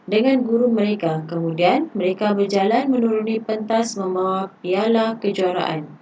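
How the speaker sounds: steady classroom read-aloud of a dialogue; reading a passage aloud. Acted. Teacher reading a textbook dialogue to pupils, measured read-aloud. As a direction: read the story evenly for the pupils.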